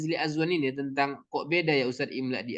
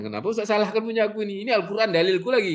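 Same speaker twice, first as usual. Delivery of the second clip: defensive student; 6 semitones higher, faster than usual. Retold or imitated. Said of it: "kan begitu kadang-kadang kita".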